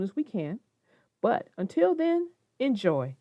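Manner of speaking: put-on gentle read-aloud to children; story reading. A narrator's reading. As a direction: read calmly to kids. Reads picture book.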